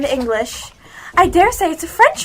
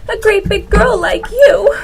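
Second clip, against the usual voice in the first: crying; 2 semitones higher than usual. Acted. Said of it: "began to cry again".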